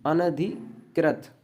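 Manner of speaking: अनधिकृत slowly, with a break before the end; teacher's slow repeat; slow dictation. Shown as a demonstration. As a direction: break the word up carefully.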